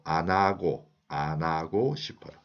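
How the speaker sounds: 안 하고 run together with the ㅎ dropped, like "a-na-go"; linked pronunciation. Shown as a demonstration. Teacher shows learners how she pronounces it, 안 하고 linked as "a-na-go". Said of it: "How did I pronounce?".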